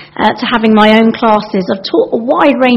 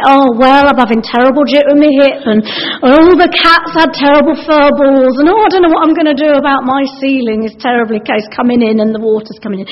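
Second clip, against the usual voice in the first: moaning; 3 semitones higher than usual. Acted. Mock oversharing to a shop assistant.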